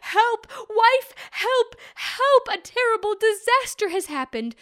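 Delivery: high, loud shouts for the wife; crying for help. Acted. Man calling his wife from the well, high loud shouting. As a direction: yell for help across the hill. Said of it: "he cried".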